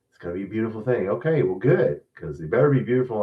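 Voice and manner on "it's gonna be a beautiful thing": fast mocking quote. Host mocking the coach's empty phrase, quick scornful parody. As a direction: rattle off "beautiful thing" in quick mock. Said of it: "can you just talk normal?".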